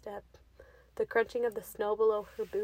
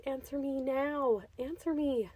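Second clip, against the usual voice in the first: desperate demand; 4 semitones higher, slower than usual. Acted.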